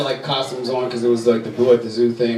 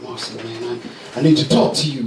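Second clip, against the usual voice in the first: serious sub teacher; 3 semitones lower than usual. Retold or imitated. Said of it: "he's like".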